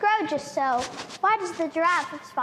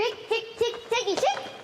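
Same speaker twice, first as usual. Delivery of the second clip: higher, clicking creature call; mongoose chatter; 5 semitones higher than usual. Acted.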